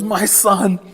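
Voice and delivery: high, rising wail of a despairing mom; a mother lamenting her son's madness; exasperated mother. Retold or imitated. Mom voiced, punchline.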